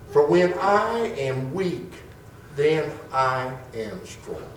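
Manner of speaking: slow, weighty reading of the "I have learned" passage; scripture reading. Acted. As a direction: lean into each phrase of scripture. Reads Second Corinthians aloud.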